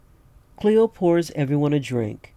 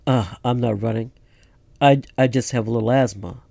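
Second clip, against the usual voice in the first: hurried, breathless excuse; out of breath, rushing the words; 2 semitones lower, faster than usual. Acted. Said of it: "You're out of breath, man".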